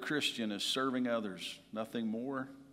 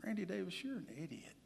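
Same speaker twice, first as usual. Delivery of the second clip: scolding himself; 4 semitones higher, 7 dB louder than usual. Retold or imitated. Speaker scolding himself inside, hushed whisper. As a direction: hiss inner self-scolding under the breath. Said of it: "I was like".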